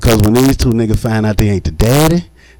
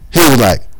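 ordinary talk

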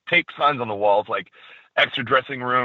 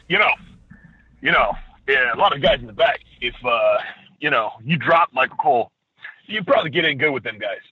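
lightly voiced Triple H, sly half-joking suggestion; a hint of a boss hinting with a wink; Triple H impression. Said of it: "that was me doing a Triple H impression".

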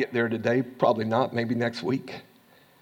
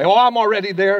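mock arrogant boast; 6 semitones higher, 7 dB louder than usual. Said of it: "arrogantly wants to stand up".

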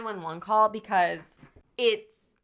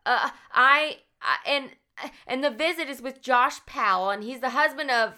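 flustered social worker; 6 semitones higher, 5 dB louder than usual. Retold or imitated. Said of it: "she's very, like, distraught".

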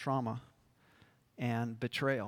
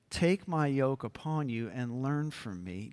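tender quoting. Shown as a demonstration. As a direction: offer the words gently. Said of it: "here's where this is so beautiful".

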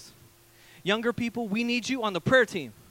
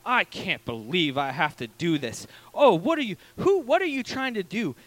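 a scolding rant that bursts louder on "Oh"; half-mocking the dentist's irritated yelling; 3 semitones lower, 4 dB louder than usual. Retelling how the dentist scolded him, with a mock yell. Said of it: "all she did was yell at me".

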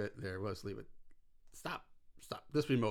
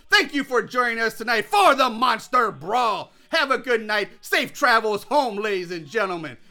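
booming ringside play-by-play, pitched up; wrestling announcer. Pretend. Calling a mock wrestling match for the listeners, booming announcer. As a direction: hype the crowd like a wrestling commentator. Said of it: "I don't know why I'm still doing that".

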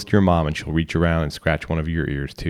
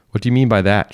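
higher, louder indignant question; exclaiming; 5 semitones higher, 6 dB louder than usual. A narrator's reading. Mom challenging her child's remark, exclaimed. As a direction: exclaim it, pitched up. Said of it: "she will exclaim".

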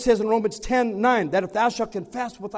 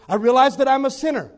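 louder, fervent prayer line said first; leading the prayer; 4 semitones higher, 7 dB louder than usual. Retold or imitated. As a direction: pray it out for him to repeat. Leading prayer, line then echo.

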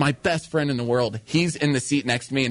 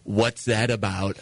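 slow, slightly lowered mother's voice; dead-eyed mom; 4 semitones lower, slower than usual. Acted. Mom confronts son on arriving home, lightly acted slow suspicion. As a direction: question slowly, lightly playing a suspicious mom. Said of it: "She comes dead eye with me".

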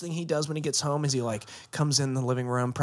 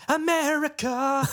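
drawn-out announcer voice; 12 semitones higher, slower than usual. Pretend. Mock announcer calling America.

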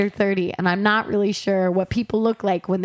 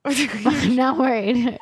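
laughing; 4 semitones higher, slower than usual. Real, not acted. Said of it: "laughs, repeats line".

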